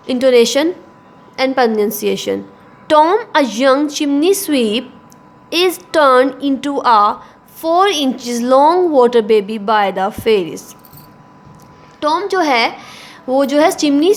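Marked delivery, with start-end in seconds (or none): 2.9-10.7 reading the textbook passage aloud slowly and carefully; careful classroom reading, x0.5 pace; slow, measured textbook reading for students. Acted. Teacher reads textbook aloud.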